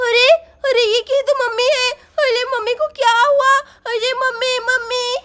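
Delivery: high, slow shocked cry; shocked cry at the mother's fall. Acted. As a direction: daughter alarmed at her mother's fall. Daughter sees hurt mother.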